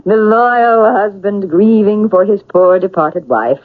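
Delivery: slow, mocking sarcasm; sarcastic. Sister mocks their father's false grief, slow and sarcastic. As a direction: lay the sarcasm on thick. Sarcastic mockery of grieving husband.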